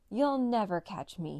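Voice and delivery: a taunting half-shout over the shoulder; mild slow shout. Acted. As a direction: call it back slowly. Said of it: "he shouted".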